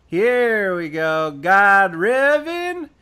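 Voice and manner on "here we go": a slow, loud, drawn-out here we go. Real, not acted. Streamer finding the thread, slow and loud. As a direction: savour finding the juicy thread.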